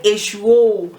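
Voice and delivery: "Eshu, oh" with a loud, falling "oh"; emphatic oh. Shown as a demonstration. Teacher showing how to emphasize a name, emphatic oh. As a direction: lean hard on "oh" after "Eshu". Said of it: "teach you a different way of emphasizing".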